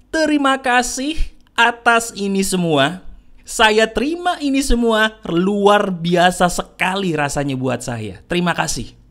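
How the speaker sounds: slow, clearly audible affirmation; spoken out loud. Shown as a demonstration. Speaker leads the audience in repeating thanks, slow and out loud. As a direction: say it slowly for others to repeat. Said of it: "katakan dengan suara yang terdengar".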